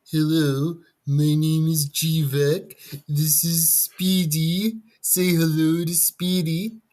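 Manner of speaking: slow squeaky falsetto voice; high put-on voice, drawn out; squeaky falsetto mockery. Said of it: "I'm actually very good at voices".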